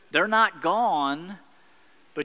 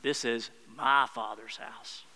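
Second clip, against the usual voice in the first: soft declaration; 5 semitones lower, 6 dB quieter than usual. Acted. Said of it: "he's saying".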